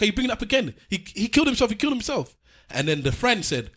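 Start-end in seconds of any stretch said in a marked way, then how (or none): 0.0-2.4 put-on old actress. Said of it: "She's like".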